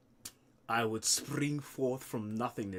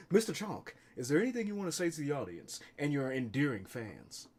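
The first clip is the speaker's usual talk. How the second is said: interviewer; 6 dB quieter than usual. Acted. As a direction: ask the star a polite question. Voices a calm interviewer.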